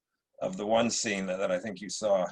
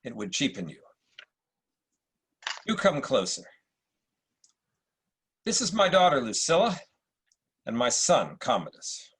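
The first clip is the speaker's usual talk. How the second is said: supercilious Marcus Aurelius. Acted. Emperor greets Septimius at court, lightly supercilious. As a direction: play it like a British actor's Roman emperor. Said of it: "a slightly supercilious Marcus Aurelius".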